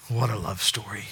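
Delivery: awed unvoiced whisper. Preacher marveling to congregation, whisper. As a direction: whisper it in wonder.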